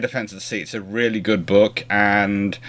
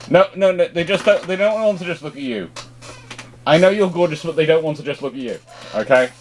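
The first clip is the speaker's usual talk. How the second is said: fond scolding of a pet; 6 semitones higher than usual. Real, not acted. Owner telling his gorgeous poodle to move, high fond scolding. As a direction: tease the dog while shooing it off camera.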